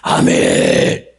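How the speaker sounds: very low, very slow rumbling amen; deep drawn-out amen. Retold or imitated. Preacher mimics the congregation's slow, deep amen. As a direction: drag out each amen deep in the chest.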